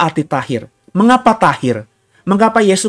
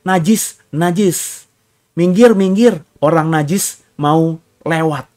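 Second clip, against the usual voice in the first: mock call out; slower than usual. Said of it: "dengan teriak".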